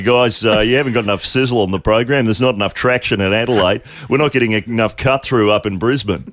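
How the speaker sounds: a hint of announcer in everyday chat; ex-announcer boss voice. Radio boss complaining about lack of sizzle, lightly put-on announcer voice. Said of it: "in everyday conversation, they'll be".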